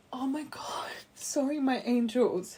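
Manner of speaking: real choked-up, breaking into a whisper; whispery, overcome apology; getting emotional. Real, not acted. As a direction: apologize while overcome, voice giving out. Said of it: "I'm getting so emotional".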